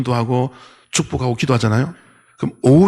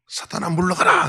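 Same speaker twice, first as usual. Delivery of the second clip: mock rebuke shout; 4 semitones higher than usual. Pastor in his vision rebuking the snake, mild mock shout. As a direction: call it out again, lightly acted. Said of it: "이렇게 외쳤죠".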